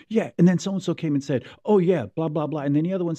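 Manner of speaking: high, mocking one-voice impression. Teasing a cohost about his impressions, high mock voice. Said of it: "you come up and you're like".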